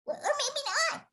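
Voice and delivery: trying another take. Shown as a demonstration. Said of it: "Maybe before the Smurf commercial".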